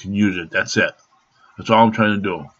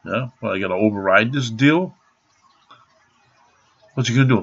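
ordinary talk, nothing marked

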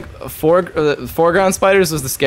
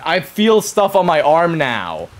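creeped out; 5 semitones higher, slower than usual. Real, not acted. Creeped out by spiders.

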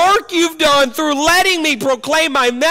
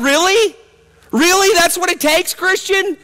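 incredulous; 4 semitones higher than usual. Real, not acted. Incredulous rhetorical question.

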